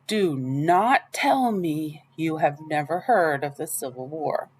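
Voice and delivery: put-on slow, scandalised old lady; appalled, drawing it out; shocked disbelief. Miss Franny shocked, near fainting.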